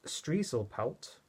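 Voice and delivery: Striezelpalt sounded out slowly with German vowels; careful slow German-style reading of Striezelpalt. Shown as a demonstration. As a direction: pronounce Striezelpalt slowly, as if it were a German word. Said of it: "I know I'm reading that as if it's German".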